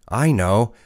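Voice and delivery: lightly voiced mocking chant; mocking singsong. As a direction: taunt the name like Charlotte mocking her. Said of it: "she's mocking everybody".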